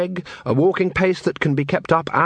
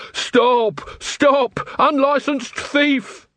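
yelling after a thief; 12 semitones higher, much slower than usual. A narrator's reading. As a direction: call out after the runaway.

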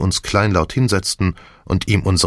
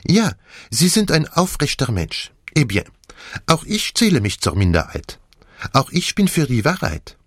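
put-on high, animated French-accented detective; Poirot; 7 semitones higher than usual. Detective sums up the vote, animated French accent. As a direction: pronounce it with theatrical relish.

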